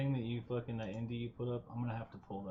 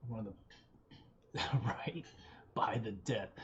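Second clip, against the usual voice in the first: whispering. Real, not acted. Joking aside about buying death.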